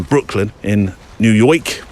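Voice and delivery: a slow, hammed-up Brooklyn accent on "Brooklyn in New York"; terrible New York accent. Podcaster naming MPB's bases, slipping into a mock New York accent. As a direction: put a bad New York twang on it, half-joking. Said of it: "Apologies for the terrible accent".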